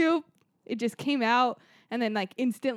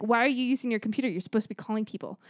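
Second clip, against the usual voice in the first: retold snap; faster than usual. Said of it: "snapped at her".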